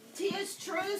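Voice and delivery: high, squawky little parrot voice; squawking parrot. A narrator's reading. Parrot squawks agreement to the captain, high and squawky. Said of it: "squawked the bird".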